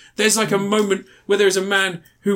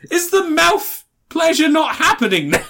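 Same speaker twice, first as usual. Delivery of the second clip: innocent question; 11 semitones higher than usual. Retold or imitated. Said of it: "She goes".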